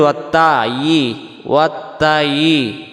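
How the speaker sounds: ওয়াত্তায়ি with a thin, drawn-out "taa"; slow demonstration of light t in ওয়াত্তায়ি; mistaken light ta. Shown as a demonstration. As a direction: stretch ওয়াত্তায়ি as "wattaa-yii". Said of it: "এই ত অক্ষরটা তখন তায়ের উচ্চারণ আসতেছে".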